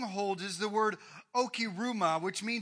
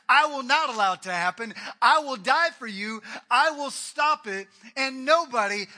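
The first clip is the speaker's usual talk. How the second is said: forceful, loud protest pounding the table; defiant loyal outburst, full voice; loud vow; 3 semitones higher, 11 dB louder than usual. Acted. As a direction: swear it loudly, refusing to hear it. Peter slams table, vows loyalty.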